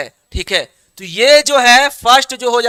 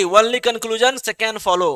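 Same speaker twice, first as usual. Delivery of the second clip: slow dictation; 5 dB quieter, much slower than usual. Shown as a demonstration. Teacher dictates answer slowly.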